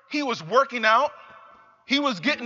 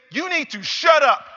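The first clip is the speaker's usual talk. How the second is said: loud, higher, sharp scolding yell; mother's angry shout; 5 semitones higher, 4 dB louder than usual. Retold or imitated. Mother lashes out at complaining son, angry shout. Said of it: "she lashed out at me".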